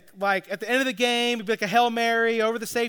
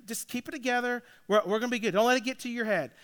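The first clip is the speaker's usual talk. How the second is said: calming down; 5 dB quieter, faster than usual. Retold or imitated. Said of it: "So I calm him down".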